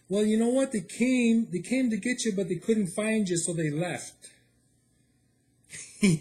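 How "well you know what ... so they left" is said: imitating the dispatcher. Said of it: "He says".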